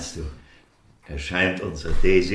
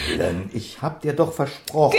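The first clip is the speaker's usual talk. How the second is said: pleading; 5 semitones higher, 4 dB louder than usual. Acted. Husband pleads in quarrel.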